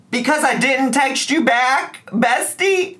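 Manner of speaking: imitating the ex in a high taunting voice; mocking whiny ex. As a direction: sneer it back at him in a high voice. Mocking the ex's complaint.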